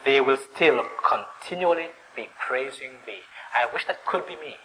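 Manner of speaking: soft, wistful psalm and wish; quiet envy. Acted. Worshipper envying those who dwell in God's house, wistful. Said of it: "it's words of envy".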